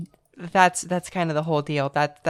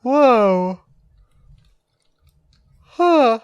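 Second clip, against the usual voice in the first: surprised; 5 semitones higher, 7 dB louder than usual. Real, not acted. Reacting to multiple-moves joke.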